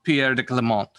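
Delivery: "Pierre de Clement" with a French nasal ending; French pronunciation. Shown as a demonstration. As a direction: say "Clement" as kluh-MON. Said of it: "respecting the French accent".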